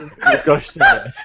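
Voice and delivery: high laughing insistence. Real, not acted. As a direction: say it through laughter.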